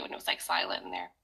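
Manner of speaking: whispered, breath only, no voice; hushed whisper. Real, not acted. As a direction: drop to a whisper as if in a silent shop. Quiet store, telling it hushed.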